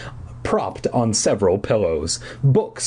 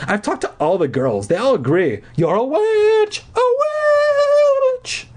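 shrill accusation; 3 dB louder than usual. A narrator's reading. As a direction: build up to screeched chanting. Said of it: "her voice shrill".

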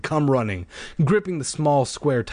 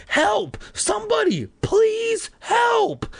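high, desperate scream; screaming for help; slower than usual. Acted. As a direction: scream as loud as you can. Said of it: "I screamed as loud as I could".

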